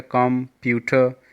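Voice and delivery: कंप्यूटर loud, broken as कं-प्यूटर; split into syllables. Shown as a demonstration. Teacher recapping three syllables, कंप्यूटर loudly broken up. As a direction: punch out the parts of कंप्यूटर. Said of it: "three syllable देखा है".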